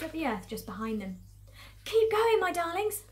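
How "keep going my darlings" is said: high, loud urging with little real panting; urgent panted encouragement. Acted. Mister Fox to his fleeing family, urgent encouragement. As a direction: urge loved ones on, pitched high. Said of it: "panted Mister Fox".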